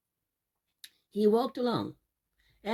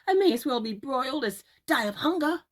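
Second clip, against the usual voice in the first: put-on pleading boy; 4 semitones higher, 3 dB louder, faster than usual. Jack still begging.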